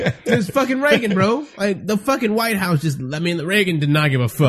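muffled, bass-heavy voice; muffled mic. Real, not acted. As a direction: sounds like through a bad mic. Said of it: "you sound muffled".

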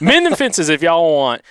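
Southern twang at a normal pace; smoother, flowing Southern accent. Acted. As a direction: read it straight through in Alabama twang. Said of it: "trying to do the accent".

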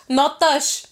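"touch" pronounced as "tosh"; "no touch" read as "no tosh"; mom's misspelling. Retold or imitated. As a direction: say "touch" with an accented short o, like "tosh". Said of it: "T O S H".

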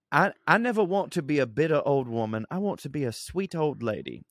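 a light hint of an Indian accent with British vowels; Indian English accent. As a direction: faintly voice it like an Indian man living in England. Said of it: "I'm talking like a, like a Indian dude that lives in England".

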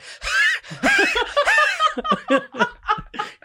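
high wheezing sound effect; mock gasping for air like an exhausted lizard; hammed-up panting; winded lizard.

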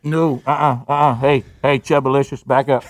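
lightly voiced strict staffer shooing him away; mock stern server. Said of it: "someone comes at me somewhat aggressive and says".

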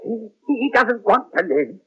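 high, frantic pleading; panicked pleading. Acted. Pleads to help a dying patient.

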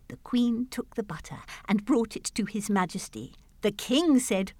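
measured storytelling verse; poem read aloud. Acted. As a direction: read it like a nursery rhyme.

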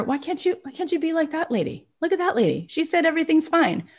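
put-on high whiny kid voice; imitating a complaining child; child self. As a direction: whine at mom like a little child. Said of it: "I remember saying to her".

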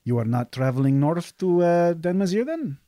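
a merchant keen to help and sell; eager desert merchant. Acted.

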